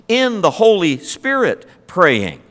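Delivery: slow, weighted "in the Holy Spirit praying"; emphatic phrase. Shown as a demonstration. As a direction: spell out each word of "in the Holy Spirit praying". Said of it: "the emphasis is not just".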